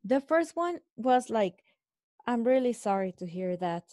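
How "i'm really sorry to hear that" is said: 1 uncaring imitation. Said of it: "Like if the person doesn't care".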